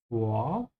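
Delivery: Vor starting with an F sound; Vor, demonstrated with an initial F. Shown as a demonstration. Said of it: "pronounce the V like an F".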